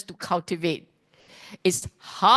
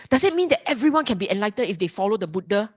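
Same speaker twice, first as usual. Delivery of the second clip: student question; 2 semitones higher, much faster than usual. Retold or imitated. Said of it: "some of you may then say".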